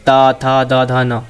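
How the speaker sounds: ता, था, दा, धा, ना spoken one by one with the tongue on the teeth; dental letters demo. Shown as a demonstration. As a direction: sound out ता, था, दा, धा, ना slowly for the class. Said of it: "है ना, ये बोला मैंने".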